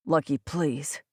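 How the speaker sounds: understated weary plea; tired and defeated. A narrator's reading. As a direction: plead with a touch of defeat. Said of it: "he sounded tired. No, more than that. Defeated".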